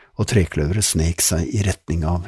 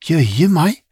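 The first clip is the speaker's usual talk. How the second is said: put-on girl's voice; 9 semitones higher, 6 dB louder than usual. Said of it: "sa Lizzie og hutret".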